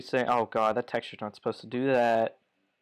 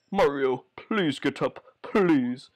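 pleading character voice; slower than usual. Acted. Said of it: "He had a radical voice shift".

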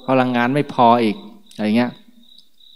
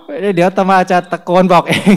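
laughing; 6 semitones higher, 5 dB louder than usual. Real, not acted. Jokes about shouting at nurses.

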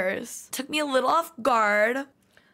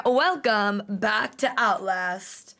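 slow drawn-out intro; 4 semitones lower, slower than usual. Shown as a demonstration. Youtuber drawing out her channel greeting slowly. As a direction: welcome stretched out slowly. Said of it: "I kinda wanna, like, twirl".

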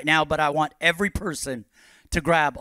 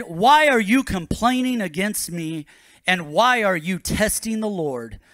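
raised-pitch challenge from the pulpit; indignant rebuke; 4 semitones higher, 4 dB louder than usual. Acted. Moses answering the people's complaints, indignant rebuke. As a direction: read it as a firm, rising reproach.

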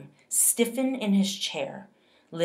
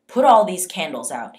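commanding, much louder bark; officer barks an order at the family; 10 dB louder than usual. Acted. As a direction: order it across the room.

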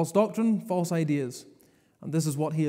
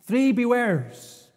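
slow emphasis; 4 semitones higher, much slower than usual. Shown as a demonstration. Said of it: "emphasis on three".

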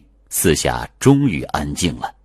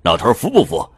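smug taunt; faster than usual. Acted. Coat man gloats over Liu, smug and quick. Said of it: "大衣男得意的一笑".

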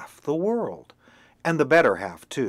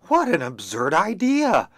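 loud, high scornful scoff; scornful hen; 6 semitones higher, 7 dB louder than usual. Acted. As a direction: scoff at the silly idea. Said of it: "said the hen".

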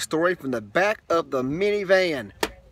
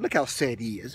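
mock sad; 5 semitones lower, 5 dB quieter than usual. Shown as a demonstration. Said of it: "Give a sad face".

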